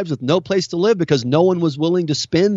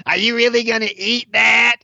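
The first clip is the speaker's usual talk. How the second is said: higher, sneering imitation of a self-righteous vegan; mock the preachy vegan at lunch, pitched up; 6 semitones higher than usual. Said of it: "self-righteous vegan looks at me and goes".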